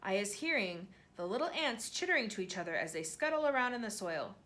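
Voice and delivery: the BFG's odd grammar, gently played; a hint of a kindly giant. BFG voiced in narration.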